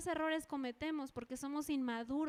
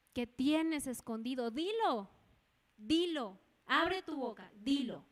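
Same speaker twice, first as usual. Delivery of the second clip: firm, insistent command to confess; insistent demand; slower than usual. Acted. The Lord pressing someone to speak up, insistent. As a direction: press each short order with a falling end.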